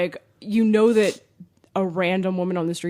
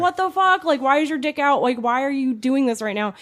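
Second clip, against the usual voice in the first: higher, startled mock panic at the flasher; retold panic; 6 semitones higher than usual. Woman at bus stop, startled, mock panic. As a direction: replay the shock and fear, a bit hammed-up. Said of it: "You're afraid".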